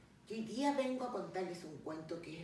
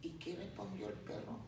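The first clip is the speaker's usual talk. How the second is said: narración pausada y expresiva de cuento; cuento infantil; 3 semitones lower, 4 dB quieter than usual. Acted. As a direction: cuenta el cuento a los pequeños, animando las frases. (narración de cuento para niños)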